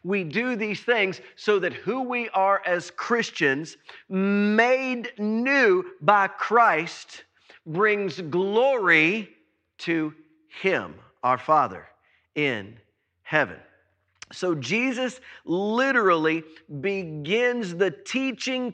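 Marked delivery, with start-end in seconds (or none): 4.1-13.6 reverent slowing. Real, not acted. Preacher slows down to honour the Father, reverent. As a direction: draw each word out reverently.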